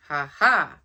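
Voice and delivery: loud laughing shout; triumphant yell. Acted. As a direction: crow it out in triumph. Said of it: "yells Kitty".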